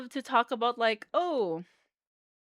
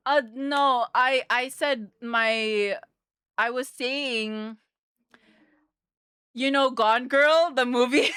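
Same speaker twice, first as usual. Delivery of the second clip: usual speaking voice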